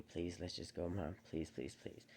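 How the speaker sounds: imitating a frightened little girl pleading; pleading child. Daughter begging her mom to drive away, soft pleading.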